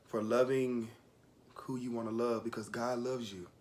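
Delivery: halting, holding back real tears; near tears. Real, not acted. Recalling grandmother's blessing, trying not to cry. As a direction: push through the words while welling up. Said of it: "I'm about to start crying".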